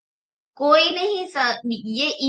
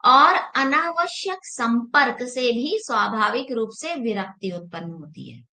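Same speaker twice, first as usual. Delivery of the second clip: reading scripture. Shown as a demonstration. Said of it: "चालीसवें सूत्र में ये बोला है".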